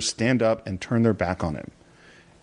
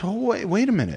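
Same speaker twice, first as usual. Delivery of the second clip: juror catching himself; 10 semitones higher than usual. Retold or imitated. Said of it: "and then he goes".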